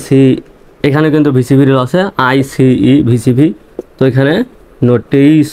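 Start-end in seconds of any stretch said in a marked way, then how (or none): 4.9-5.5 নোটিস sounded out as spelt, drawn ending; spelling pronunciation. Shown as a demonstration. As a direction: say নোটিস the way the letters suggest. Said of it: "নোটাইজ হওয়ার কথা".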